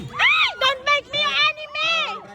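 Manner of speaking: loud, high-pitched 'Hey' then a called-out warning; pasigaw na banta. Acted. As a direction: call it out across the court. Courtside heckler calls out to player. (pasigaw na pagbabanta mula sa gilid ng court)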